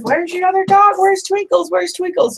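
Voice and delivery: very high, loud sing-song calling "Where's Twinkles?"; mailman calling for the dog. Retold or imitated. Mailman calling out sweetly for the missing dog in a very high voice. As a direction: call out for the dog the way the mailman did. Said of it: "Anyway, she says".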